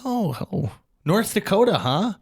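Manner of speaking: lightly voiced high cartoonish greeting; voicing a celebrity. Castellanetta retold greeting.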